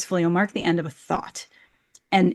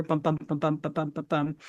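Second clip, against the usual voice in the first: soft da-DUM beat on "bum"; iambic rhythm demo; 3 semitones lower, 7 dB quieter than usual. Shown as a demonstration. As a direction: tap out the heartbeat rhythm on "bum, bum". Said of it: "with iambic pentameter".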